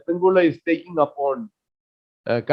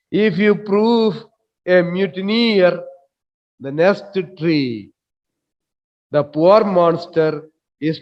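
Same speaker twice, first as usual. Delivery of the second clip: measured, slow royal command; kingly command. Acted. Stephano as king rebuking Trinculo, slow and stately. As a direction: speak down to him like a king. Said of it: "he is speaking like a king".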